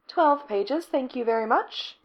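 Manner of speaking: bragging about twelve pages, lightly smug; proud of her work, telling her girlfriend smugly. Acted. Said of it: "Becky says smugly".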